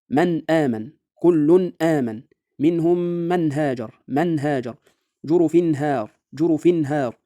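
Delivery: slow Tajweed demo, each n distinct before the throat letter, as in "من آمن"; clear izhar. Shown as a demonstration. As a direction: recite slowly, keep the n unmerged in "من هاجر" and "أنعمت". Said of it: "يا أمثلة على ذلك". (تلاوة متأنية بإظهار النون الساكنة والتنوين، مثل "من آمن" و"لطيف خبير")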